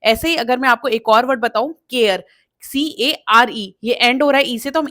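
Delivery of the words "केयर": केयर with a clear "kay" start; full "ay" sound. Shown as a demonstration. Teacher gives another example word, केयर with a clear ay. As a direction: say केयर with the A fully sounded, final E silent. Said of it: "proper sound आएगा के".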